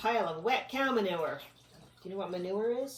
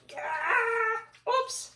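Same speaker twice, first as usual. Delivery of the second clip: high bug grunt; 6 dB louder than usual. Acted. Bug strains and slips.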